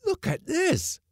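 very high, wailing exclamation; a cook crying out in despair; distraught cook. Acted. Distraught cook shows loss.

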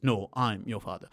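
lightly voiced Darth Vader quote; corrected Darth Vader line. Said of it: "the correct word is".

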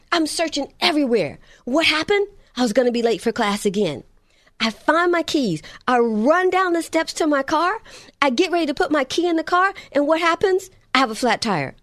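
a touch of the whiny son reeling off his bad morning; frustrated son. Mother voices frustrated son.

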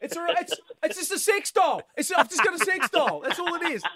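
high, frantic mock panic; panicked backpedalling. Dad correcting himself to plane passengers, panicked high voice. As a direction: rush to calm everyone, voice shooting up.

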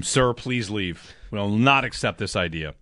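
slow, measured mock-stern dismissal. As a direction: playfully show him the door, deliberate and formal. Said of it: "I'm very sternly getting him out".

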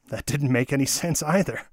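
ordinary delivery

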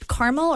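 caramel as CAR-mel, then caramel as CARE-a-mel; two rival pronunciations. Shown as a demonstration. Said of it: "Do you say car".

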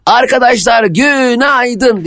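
high, slow, stretched-out good morning; imitating Ayşe's greeting. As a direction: draw out the greeting like a host. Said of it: "Şöyle".

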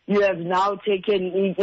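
ordinary talk, nothing marked

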